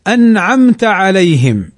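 slow recited أنعمت عليهم; Quran recitation. Shown as a demonstration. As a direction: recite the verse slowly with tajweed. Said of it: "مثل قوله تعالى". (تلاوة بطيئة مجودة)

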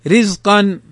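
thin opening ر in رزقا; careful model word, رزقا with a light ر. Shown as a demonstration. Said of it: "رققت".

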